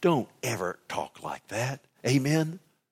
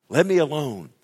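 louder, higher, insistent outburst; forceful plea; 5 semitones higher, 6 dB louder than usual. Acted. Preacher as Job talking to God, loud insistent plea. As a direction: burst out with the demand.

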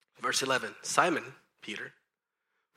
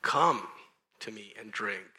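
mildly raised preaching call; crying out; 3 dB louder than usual. Retold or imitated. Jesus at the great feast, mild crying out. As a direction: call to the crowd, punching "come". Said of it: "cried out, saying".

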